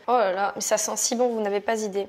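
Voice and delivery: light put-on southern French accent; playful southern French accent, sing-song. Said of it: "Pourquoi je fais un accent du sud là tout de suite?".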